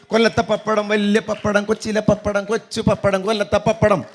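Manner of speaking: tongue twister. Shown as a demonstration. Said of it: "നാക്കൊക്കെ ഒന്ന് തിരിയട്ടെ".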